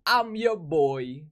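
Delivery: low, groggy just-woke-up voice; morning voice. Real, not acted. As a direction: fresh out of bed, voice still low. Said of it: "y'all could hear my morning wakey voice".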